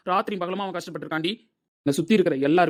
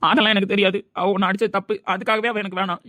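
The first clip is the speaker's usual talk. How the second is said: raised, loud, stubborn retort; angry refusal; 4 semitones higher, 6 dB louder than usual. Acted. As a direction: refuse to hear any excuse. Angry argument defending friend.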